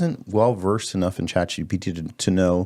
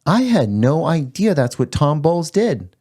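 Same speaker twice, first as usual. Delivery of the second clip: put-on higher, slow old woman voice; lightly voiced elderly Jewish lady; 5 semitones higher than usual. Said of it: "that's the voice I did".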